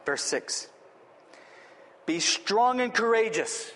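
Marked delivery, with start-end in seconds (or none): 2.0-3.7 slow, weighty command on "strong and courageous"; emphatic. Acted. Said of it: "He's emphatic".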